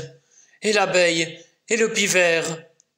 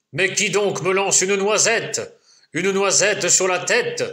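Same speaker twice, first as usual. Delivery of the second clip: lumberjack yelling; 5 semitones higher than usual. Acted. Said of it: "le bûcheron crie".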